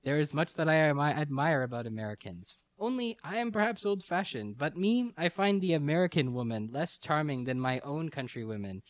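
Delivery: lightly voiced detective, lilting up at times; Poirot. Detective confides his taste in women to the American, lightly acted. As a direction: read it as a mildly acted, measured detective. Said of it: "agreed Poirot".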